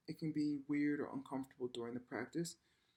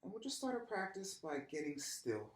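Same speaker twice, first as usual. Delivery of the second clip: softer, unhurried voice with long pauses; guided meditation; 5 dB quieter than usual. Real, not acted. Yoga teacher lying down to start practice, soft guided meditation. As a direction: ease them gently into stillness.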